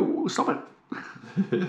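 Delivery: slow breathy laughing protest. Real, not acted. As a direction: giggle out a protest. Reacting to wiggle.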